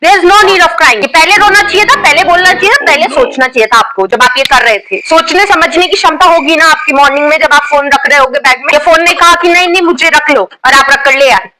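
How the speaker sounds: lightly voiced strict schoolteacher, scolding the class; a teacher catching girls with nail paint, scolding; stern teacher scolding. Teacher confronts student over phone.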